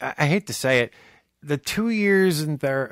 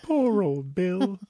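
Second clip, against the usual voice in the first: slow, higher put-on old-salt voice; pirate-like character voice; 4 semitones higher, 5 dB quieter, much slower than usual. Groping for the film line, slow mock pirate voice. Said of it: "was that Pirate Mary Poppins".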